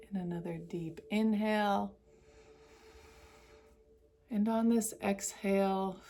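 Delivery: measured meditation voice with long pauses; guided meditation. Acted. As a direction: guide each breath, leaving long silences. Leads a breathing meditation.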